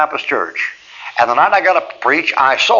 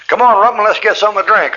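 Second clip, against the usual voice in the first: higher, louder hail to a buddy; raised-voice invitation in passing; calling out; 8 semitones higher, 3 dB louder than usual. Retold or imitated. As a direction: call a friend over to come along. Friend calls him out for a drink.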